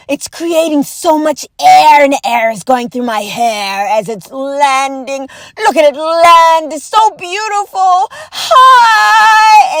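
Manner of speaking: mock dazzled gasps at landing lights; wide-eyed hammed-up wonder; awestruck onlooker. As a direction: play a starstruck fool gazing up at a UFO. Mocking awestruck onlookers of aliens.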